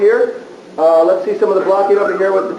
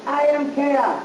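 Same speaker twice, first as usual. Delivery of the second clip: villain line; 4 semitones higher, 5 dB quieter, slower than usual. Shown as a demonstration. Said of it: "let me hear it together".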